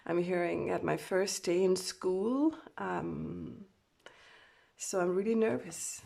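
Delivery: real nerves creeping into the voice; nervous, shaking voice. Real, not acted. Reader channelling a scared Divine Masculine, nervous. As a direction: speak as if rattled on a first day. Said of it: "my voice is shaking because of the energy".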